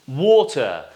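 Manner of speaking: British "water" with "aw" and no final R; teacher's careful British "water"; British O sound. Shown as a demonstration. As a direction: model "water" as "waw-tuh". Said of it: "it's gonna be O sound".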